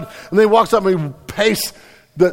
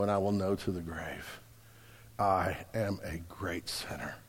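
put-on hushed old man's confession; 10 semitones lower, 16 dB quieter than usual. John Newton, old and senile, confessing softly. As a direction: whisper it like a dying man's truth.

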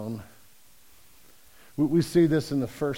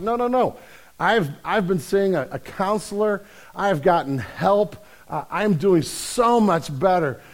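higher-pitched, acted protest of having changed; insistent reassurance; 6 semitones higher, 5 dB louder than usual. Guy reassuring the doubtful bartender, acted insistence. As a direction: insist eagerly, mock-earnest, drawing out the last claims.

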